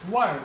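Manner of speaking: वर्ड said with no r sound; वर्ड, the r left silent; word without r. Shown as a demonstration. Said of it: "आर का उच्चारण नहीं होगा". (वर्ड बिना र के)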